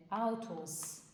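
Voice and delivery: آتوس with final s sound; German example word. Shown as a demonstration. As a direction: say آتوس ending in a clear s.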